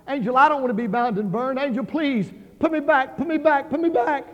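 high, loud begging, acted out; desperate pleading. Condemned churchgoer begging the angel not to burn them, desperate plea.

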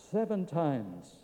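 slow, soft repeat; hushed echo. Acted. Preacher turning the command toward the cross, hushed. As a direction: drop right down and stretch it out.

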